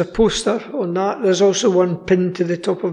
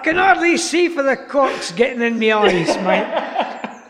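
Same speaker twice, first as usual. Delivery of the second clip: laughing through a hammed-up Aussie accent; Australian accent while laughing; 4 semitones higher than usual. Speaker addressing Steve in the mock accent, laughing. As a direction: break up with laughter but keep the Aussie voice. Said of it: "an Australian or a South African".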